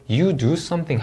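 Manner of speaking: "you do something" falling to close; falling tune. Shown as a demonstration. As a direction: bring "something" down in pitch. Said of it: "읽어주시면 되겠습니다". ("something"을 내려 읽기)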